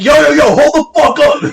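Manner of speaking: high, loud hammed-up yell; mock yell. Angry caller on hold yelling at the worker, loud mock shout. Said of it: "The guy yells at me".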